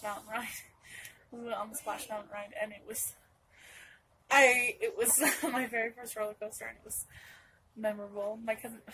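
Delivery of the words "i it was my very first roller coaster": laughing through the words at the memory. Real, not acted. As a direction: laugh it out, amused at yourself. Laughing recalling first roller coaster.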